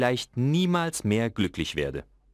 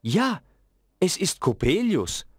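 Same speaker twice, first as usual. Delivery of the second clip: sad; 10 semitones higher than usual. A narrator's reading. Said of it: "sagte mein Vater traurig".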